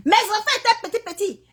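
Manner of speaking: real tearful cry. Real, not acted. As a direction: cry out the memory, choking up. Recalling fleeing war with children.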